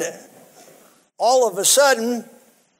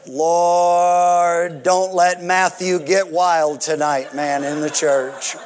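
mock prayer; 4 semitones lower, slower than usual. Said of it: "the prayer we all pray as Pentecostals".

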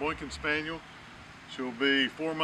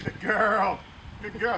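excited praise; 6 semitones higher, 3 dB louder, slower than usual. Real, not acted. Praising puppy after retrieve.

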